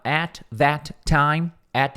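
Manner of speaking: very slow, careful English phrase; drawn out so students copy; slow model reading. Shown as a demonstration. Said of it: "repeats for students". (leitura bem lenta)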